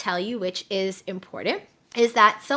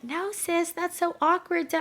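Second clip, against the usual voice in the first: reluctant protest; 7 semitones higher than usual. Retold or imitated. Client balks at putting her son first, mild reluctant protest. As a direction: balk at an awkward suggestion, higher pitched. Friend balking at the coach's suggestion.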